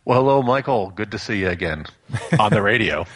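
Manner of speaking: lightly put-on public-radio host greeting; NPR voice. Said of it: "Is that your N P R voice".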